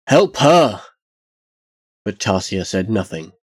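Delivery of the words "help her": louder, higher desperate cry; screaming. A narrator's reading. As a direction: beg at the top of his voice. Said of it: "he screamed up at Tarsia".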